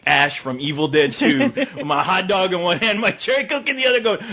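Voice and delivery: ordinary talk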